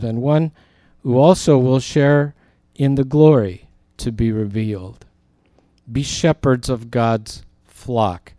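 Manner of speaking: measured, emphatic Bible reading; scripture reading. Real, not acted. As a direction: project the verse firmly to the congregation. Reads scripture aloud to listeners.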